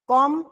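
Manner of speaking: কমফোর্টেবল split into four syllables with long pauses. Shown as a demonstration. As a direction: break কমফোর্টেবল apart, stopping after every syllable. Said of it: "কিভাবে ভাঙবো সিলেবলটাকে?".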